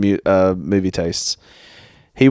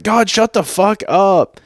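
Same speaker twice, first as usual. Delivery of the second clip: retold annoyed yell; 10 semitones higher, slower than usual. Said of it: "And I'm just like".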